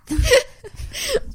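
high squealing laugh. Real, not acted. Laughing at Rhiannon impression.

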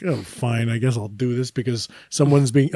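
low, resigned mumble of giving in; grudgingly agree, soft and low; reluctant agreement. Retold or imitated. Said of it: "I have to be like".

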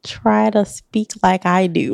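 put-on slow, careful standard accent, country twang dropped; slow mimicry of a neutral, non-country accent; imitating standard accent. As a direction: copy a proper standard accent, measured and unhurried. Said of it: "see, you're good at that".

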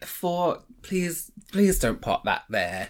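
breathless from the stairs; panting, out of breath after climbing stairs. Real, not acted. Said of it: "sorry, I'm so out of breath".

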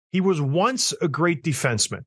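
"once" singled out with emphasis; stress on ONCE. Real, not acted. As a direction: lean on the word "once". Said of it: "I stress the word once".

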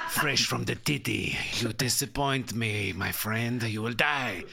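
slow, mock menacing crime boss; lightly voiced drug lord threat; cartel drug lord. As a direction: threaten him like a disappointed kingpin. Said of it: "a sort of a Colombian cartel, uh, drug lord".

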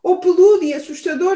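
high, loud, rushed; excited exclaim. Acted. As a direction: blurt it out excitedly. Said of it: "exclamou o alce".

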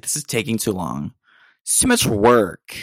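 imitating himself grumbling that piano is too hard; mock complaining. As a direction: drag out the last words like a spoiled whine. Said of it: "how you complain about things".

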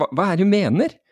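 high-pitched mock bewilderment; acted puzzled reply; puzzled comeback. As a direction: throw the question back, baffled. Student's puzzled reply, retold.

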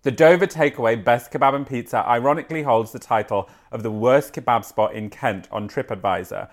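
reading a news article aloud, lightly amused. Acted. Presenter reading a kebab story to her co-host, lightly amused. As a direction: read the story out like a presenter, suppressing giggles.

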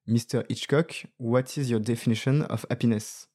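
attempted English accent, French speaker quoting a journalist; acento inglés imperfecto. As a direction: quote the interviewer in careful, imperfect English. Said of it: "mon accent anglais".

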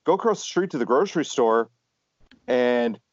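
mock-furious inner rant; imagined cussing out a cop. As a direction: vent at the cop in your head. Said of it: "all I could think was".

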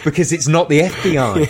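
loud, laughing tease. Real, not acted. Friends joking about the FBI, laughing loudly. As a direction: chuckle through the joke.

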